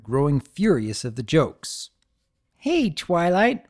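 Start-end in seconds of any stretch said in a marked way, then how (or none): 2.6-3.6 teasing call. Acted. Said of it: "Rainbow teased".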